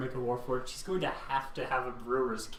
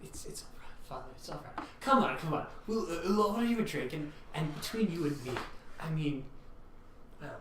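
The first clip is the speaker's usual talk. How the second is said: soothing; 4 semitones higher than usual. Acted. Barkeep comforts the friar.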